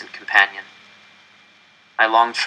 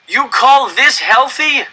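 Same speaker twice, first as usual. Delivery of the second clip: high, loud, slow outraged shout; outraged cry; 6 dB louder, slower than usual. Acted. Starving man crying out at the director, outraged. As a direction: hurl it at the stage in disbelief. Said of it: "a man cried".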